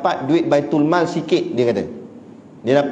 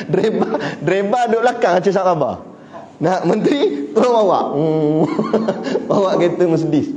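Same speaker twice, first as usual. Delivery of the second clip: laughing joke; 3 semitones higher than usual. Real, not acted. Preacher joking to the congregation about a minister driving, laughing. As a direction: chuckle through the joke.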